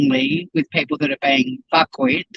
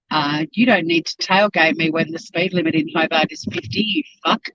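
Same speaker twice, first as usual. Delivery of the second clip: road rage. Real, not acted. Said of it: "Sorry, bit of road rage".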